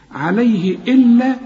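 إلا with a firm, held doubled L; doubled lam. Shown as a demonstration. Teacher shows the shadda on the lam, doubled lam. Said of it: "اللام مشددة".

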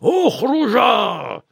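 high, slow drawn-out shout. A narrator's reading. Uncle screams at both boys to get out. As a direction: roar the order out slowly. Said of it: "صرخ الخال فيرنون".

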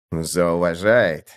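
протяжно, медленно повторяет «Зауважает»; смакуя слово «Зауважает», не спеша; медленный повтор. Acted. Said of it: "повторил Мартин". (медленно, с недоверием: «Зауважает»)

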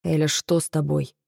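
low, gentle concern; worried and caring. A narrator's reading. Dragon hears her sob, worried and caring. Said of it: "звучал одновременно взволнованно и заботливо".

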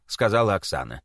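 ordinary delivery, nothing marked

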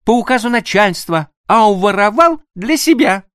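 woman thrilled about the plan; joyful exclamation. Acted. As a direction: exclaim with delight. Annushka marvels joyfully.

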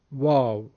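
"واو" with rounded Arabic w, not Persian v; Arabic letter name. Shown as a demonstration. Teacher lists special Arabic letters, "واو" with a w. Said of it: "اون ده حرف عبارتند از".

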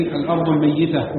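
الميتة as "al-mayyita", with a doubled y. Shown as a demonstration. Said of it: "بتشديد الياء في الثلاثة". (الميّتة بتشديد الياء)

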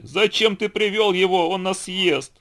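high-pitched, drawn-out storybook wail; tearful wailing. A narrator's reading. Frightened friends to the donkey who brought a tiger, tearful wail. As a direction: wail it slowly and high, in mock tears. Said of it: "Взглянули друзья и заплакали".

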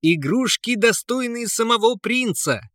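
loud, high vendor call; calling out loudly. A narrator's reading. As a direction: hawk wares to passersby. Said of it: "громко зазывал он прохожих".

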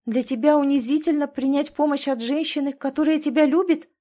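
a pained challenge; hurt, accusing wife. A narrator's reading. Wife confronts husband in pain, high and loud.

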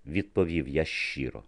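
ordinary delivery, nothing marked

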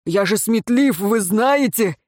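self-satisfied boast; smug. A narrator's reading. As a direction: preen about your own cleverness. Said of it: "В голосе Роина прибавилось самодовольство".

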